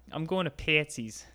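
put-on quick Chicago accent from a TV show. Quoting Shameless to her friend, Chicago accent. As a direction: imitate a Chicago TV character. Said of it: "on Shameless, they're like".

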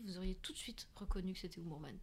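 hushed unvoiced aside; whispering. Real, not acted. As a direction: whisper it like a secret. Aside about recognizing Humourman.

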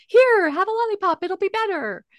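very high, sugary parent voice; mock cheery parent distracting a child; placating parent. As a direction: coax a crying child with a treat. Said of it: "parents will say to, to a child when they're crying".

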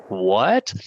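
mildly incredulous rising question; a touch of shock, voice lifting at the end; retold disbelief. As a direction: replay a taken-aback reaction. Retold shocked reaction to slur.

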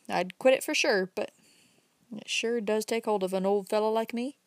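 a lightly voiced old country man, rising as he goes; folksy old fellow building up his point, slowing at the end; old Uncle Bobby. Old man lecturing the young man about smoking, lightly voiced and folksy.

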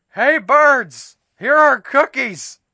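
high, loud call across the yard; loud shout. A narrator's reading. Frog calling the birds outside with a loud shout. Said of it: "He shouted in a loud voice".

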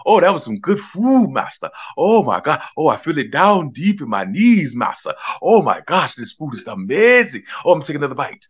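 a mocking impression, sung out with excess glee; mock minstrel voice. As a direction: ham it up like a grinning caricature. Mocking the man eating.

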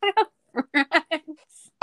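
high, drawn-out mock exclamation through laughter; Zuko. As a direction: act it out hammed-up, breaking into laughs. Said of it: "He's like".

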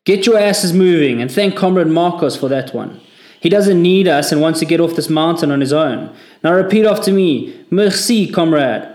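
high, loud sneering command; mocking furious order. A narrator's reading. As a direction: rub the deserter's nose in it. Corporal humiliates Marcos before section.

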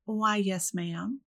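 put-on thick, drawn-out Southern accent on why yes ma'am; pronounced Southern accent. Answering the shocked dinner guests in a heavy Southern accent. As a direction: lay the Southern accent on thick, Scarlett O'Hara style. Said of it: "I responded with a much more pronounced Southern accent".

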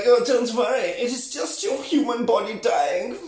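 high, lilting theatrical reassurance; mock-soothing vampire. Vampire to dying Lestat, high mock-soothing voice. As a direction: airily reassure in a put-on high voice.

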